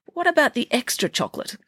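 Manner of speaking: high, eager princess voice; sweet curious royal girl; cartoon princess.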